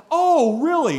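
high, loud playful disbelief; mock-challenged dad. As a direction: rise to the kid's challenge, teasingly incredulous. Dad answers son's boastful challenge.

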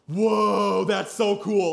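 put-on wide-eyed child wonder; amazed kid. Five-year-old seeing dad jump in, amazed. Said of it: "Caleb goes".

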